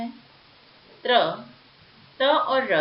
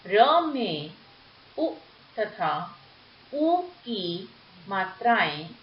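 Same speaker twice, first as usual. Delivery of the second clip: slow explanation; much slower than usual. Shown as a demonstration. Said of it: "ध्यान से देखिए".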